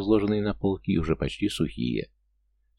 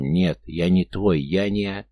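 choking on water, gasping words; 3 dB louder, slower than usual. Acted. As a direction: speak while choking on water and wind. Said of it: "захлёбываясь водой и ветром". (захлёбываясь водой)

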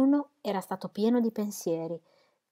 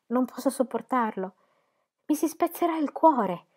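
passionate; 5 semitones higher than usual. Acted. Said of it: "l'empito della sua giovane passione".

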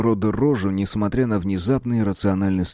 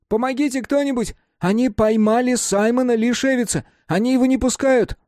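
put-on high, raised hysterical boyish cry; shouting for help. A narrator's reading. Mark shouting for help at the guard, high and raised. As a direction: cry for help half laughing, playing it up. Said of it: "кричит".

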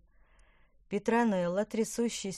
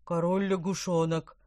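a louder cry of alarm; alarmed shout; 5 dB louder than usual. A narrator's reading. The carp shouts a warning as the monster rises, louder. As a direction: shout the warning before diving. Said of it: "крикнул Помпон".

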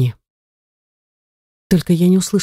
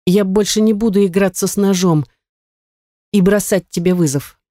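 higher, in a single breath, defeated; rattled off; 3 semitones higher than usual. Acted. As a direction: gabble it out to get it over with. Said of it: "протараторила я на одном дыхании".

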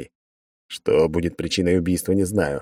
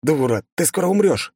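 higher, urgent yell; shouted warning; 9 semitones higher than usual. A narrator's reading. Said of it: "выкрикнул я".

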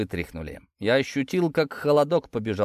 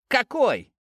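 higher, fearful squeak; terrified babble; 10 semitones higher than usual. A narrator's reading. Captured traitor to his interrogator, terrified babble. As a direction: stammer it out in terror. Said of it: "пролепетал он в ужасе".

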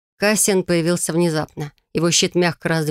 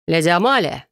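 insistent call. Acted. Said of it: "прорезал воздух настойчивый голос репортёра".

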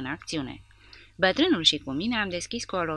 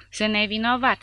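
protesting; 6 semitones higher, 6 dB louder than usual. A narrator's reading. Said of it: "spuse comisarul".

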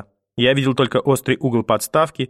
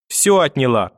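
anguished accusation without real tears; lightly acted wail; sobbing out loud, acted; 5 semitones higher than usual. A narrator's reading. Mother losing her son to grandmother, mock sobbing lament. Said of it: "в голос зарыдала мама".

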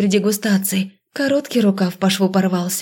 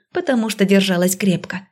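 usual speaking voice

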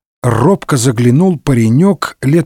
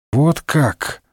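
much softer, faint dying voice; Д'Артаньян crushed by the news, barely alive; 5 dB quieter than usual. A narrator's reading. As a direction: say it as if fading away. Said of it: "голосом умирающего сказал".

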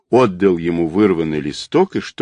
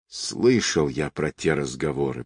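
moaning; 4 semitones lower, 6 dB quieter than usual. A narrator's reading. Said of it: "простонал Семёнов".

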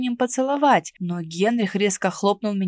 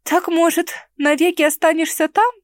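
hopeful jab; 8 semitones higher, 5 dB louder than usual. A narrator's reading. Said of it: "с надеждой спросила я".

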